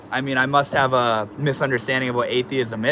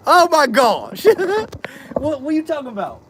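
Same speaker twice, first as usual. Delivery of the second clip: pet talk; 13 semitones higher than usual. Real, not acted. Streamer gushes at his fat pet, squeaky baby voice.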